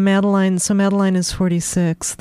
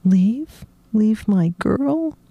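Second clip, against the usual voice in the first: stunned disbelief; 3 semitones higher, much slower than usual. Acted. Mikey stunned.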